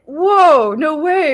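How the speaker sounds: high and loud, can't believe the luck; like you just won the jackpot; thrilled disbelief. Retold or imitated. Hearing about the payout.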